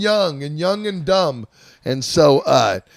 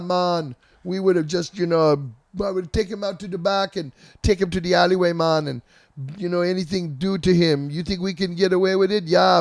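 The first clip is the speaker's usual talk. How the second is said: lightly voiced Rasta heavy, higher pitch; a hint of a menacing island bouncer, laid back; mock tough guy bragging they own the police; imitating a bouncer; 3 semitones higher than usual. Imitates Rasta bouncer Thumbs' threats.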